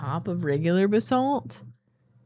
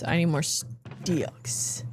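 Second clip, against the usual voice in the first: whispering; 6 dB quieter, much slower than usual. Real, not acted.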